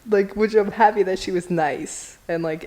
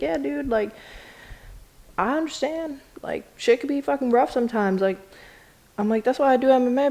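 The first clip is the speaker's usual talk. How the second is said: self-quote, higher; 5 semitones higher than usual. Retold or imitated. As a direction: talk like a tough pal. Self-quote consoling then tough.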